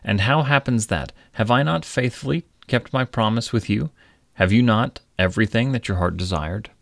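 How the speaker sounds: lightly voiced mysterious visitor, a little high; knowing stranger. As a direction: press the king gently with questions. Stranger questions the king.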